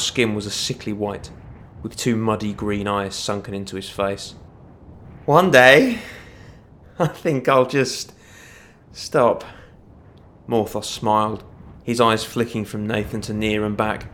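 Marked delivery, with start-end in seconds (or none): 5.3-9.4 lilting, drawn-out taunt; taunting dark elf villain. A narrator's reading. Cornered dark elf toying with the watch, taunting villain. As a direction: swing the pitch up, then let it drop slowly.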